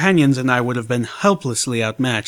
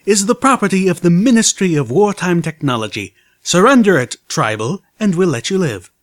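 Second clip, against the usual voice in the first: loud, higher, gruff commanding mare; 6 semitones higher, 5 dB louder than usual. A narrator's reading. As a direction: demand surrender like an officer. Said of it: "a gruff mare's voice insisted".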